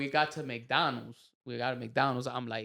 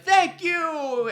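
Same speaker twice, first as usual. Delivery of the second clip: mock polite thanks; 7 dB louder than usual. Mock polite bow after fights.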